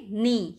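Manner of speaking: "नी" said loudly, starting on the n sound; silent K. Shown as a demonstration. Teacher showing how to pronounce knee, "नी" with silent K. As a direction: say "नी" with no k before the n. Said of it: "आप इसको कैसे pronounce करेंगे".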